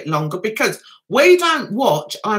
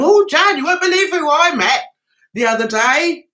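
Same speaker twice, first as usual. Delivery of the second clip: higher, louder boastful gush; bragging neighbour; 4 semitones higher, 4 dB louder than usual. Retold or imitated. Neighbour bragging about a famous person, mock boastful gush. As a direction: show off like the neighbour. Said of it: "trying to impress me with them".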